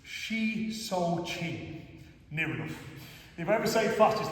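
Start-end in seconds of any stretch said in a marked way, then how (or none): 0.0-1.8 "Shi So Chin" very slowly, syllable by syllable; careful pronunciation. Real, not acted. Karate teacher attempting a tongue-twisting Japanese name, "Shi So Chin" said slowly and carefully. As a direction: pick carefully through "Shi So Chin", drawn right out. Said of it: "my Cumbrian tongue can't pronounce the name of".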